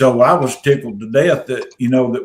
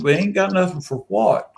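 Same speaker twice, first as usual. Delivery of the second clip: higher questioning echo of his words; puzzled group retort; 7 semitones higher than usual. Retold or imitated. Friends asking Rob what he means, puzzled retort. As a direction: throw it back as a baffled question. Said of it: "And we said".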